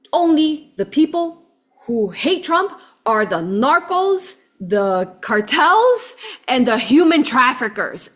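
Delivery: retelling a heated taxi driver's rant; passionate insistence. Retold or imitated. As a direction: press each word like a heated driver. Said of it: "you know how passionate these people can get".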